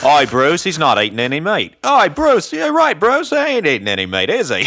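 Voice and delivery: loud, swooping mock Aussie; broad Australian parody, jumping high in pitch; Australian accent. Co-host parodying Australians talking about the vegan, in a broad Australian accent. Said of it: "what I think Australians talk like".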